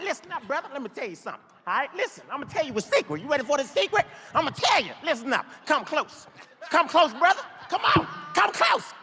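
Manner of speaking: high, pushy street preacher voice; rambling street guy. Retold or imitated. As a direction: lean in and hype him up. Naked man's rambling voice.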